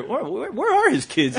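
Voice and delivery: high, halting, puzzled question; wondering girls. Retold or imitated. Teen girls eyeing a lone man, puzzled wondering. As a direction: mimic girls wondering aloud. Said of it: "kinda start to wonder".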